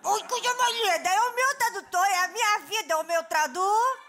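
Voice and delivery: high, loud gushing over him; gushing fan. Acted. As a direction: swoon over your translator. Apresenta o tradutor encantada. (fã encantada, voz alta e aguda)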